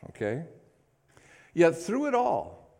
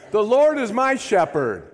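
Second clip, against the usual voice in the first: slow, high, loud climax declaration; full-voiced rallying cry; final shout; 6 semitones higher, 7 dB louder than usual. Real, not acted. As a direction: drive the last repeat home. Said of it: "Say it one more time".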